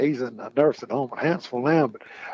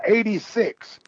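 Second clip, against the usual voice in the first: raised-pitch imitation of a holler; mock holler; 7 semitones higher, slower than usual. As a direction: call it out higher without real volume. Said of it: "somebody else would holler".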